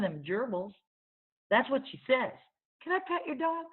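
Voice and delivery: put-on high, wide-eyed small girl asking; high childlike wonder; little girl voice. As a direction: voice her as a curious five-year-old. Child character's long speech.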